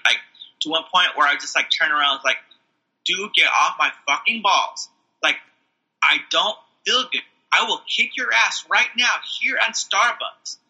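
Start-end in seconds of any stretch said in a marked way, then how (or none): 3.0-10.6 slow, emphatic warning; retold irritated threat. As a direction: re-enact losing patience, word by word. Retold snapping at homeless man.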